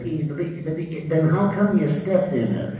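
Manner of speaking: lightly voiced stuttering cartoon pig; hesitant stammer into a puzzled question; Porky. Stutterer baffled by his companion's answer, Porky-style stutter. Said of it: "talked just like Porky".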